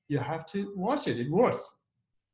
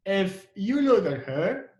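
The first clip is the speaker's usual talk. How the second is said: slow, emphatic "If", tune rising; stress on IF; 3 semitones higher, slower than usual. Shown as a demonstration. Teacher repeating the if clause, stressed "If". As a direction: lean on "If" and hang on "her". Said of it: "you put a stress on, on if here".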